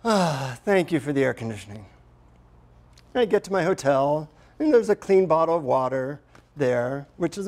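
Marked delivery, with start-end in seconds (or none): 0.0-1.9 relieved sigh into simple, earnest thanks; quick, heartfelt thank you after a sigh; sincere thanks. Retold or imitated. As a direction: say it gratefully from the heart. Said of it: "I, I sincerely say".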